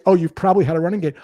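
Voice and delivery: fast, tossed-off line; quick offhand example. Shown as a demonstration. Salesperson showing how to open a cold call, quick and offhand. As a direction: rattle it off casually, no weight. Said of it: "then you say".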